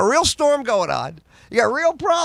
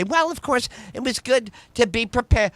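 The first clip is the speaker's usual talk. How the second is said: smug anchor; 3 semitones higher than usual. Retold or imitated. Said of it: "the next day they say".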